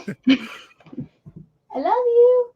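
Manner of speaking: very high, very slow cooing. Real, not acted. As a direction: coo lovingly at a pet. Cooing at the cat.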